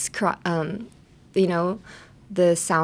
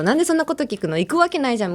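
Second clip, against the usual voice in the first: higher, baffled why would you even ask; incredulous; 5 semitones higher, much faster than usual. Shown as a demonstration. Asked about the party, an incredulous refusal. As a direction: act amazed anyone would ask. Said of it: "みたいなニュアンスをつけたいときは".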